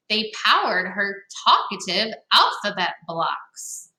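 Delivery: lively storybook read-aloud; reading to children. Acted. Teacher reading a picture book to young listeners, lively. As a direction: read it to the kids with bounce.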